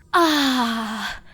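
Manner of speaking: relaxed sigh of satisfaction after coffee; a satisfied little ah; contented ah. A narrator's reading. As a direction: Luna finishes her coffee with a contented sigh. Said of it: "let out a contented, "Ah".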